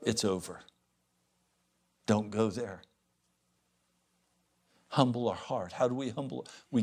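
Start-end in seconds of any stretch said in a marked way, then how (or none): 0.0-2.8 low tender warning. Retold or imitated. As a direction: warn him gently, as a pastor would.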